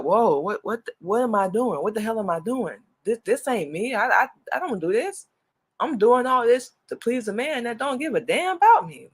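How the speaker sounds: retold disbelief at herself, pitch climbing; bewildered realization. Woman recalling waking up to her own situation, bewildered.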